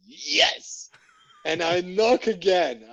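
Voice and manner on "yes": playing dumb. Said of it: "And I'm like".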